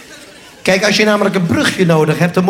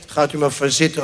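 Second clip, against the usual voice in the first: mock repeat; 6 semitones lower, 5 dB quieter than usual. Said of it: "ook zo optimistisch".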